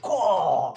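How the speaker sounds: mock envious exclamation; jealous caw. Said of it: "Like he was jealous".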